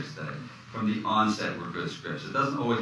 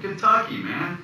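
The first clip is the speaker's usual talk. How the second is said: tag; 12 semitones higher, slower than usual. Retold or imitated. Mimics director telling him his origins.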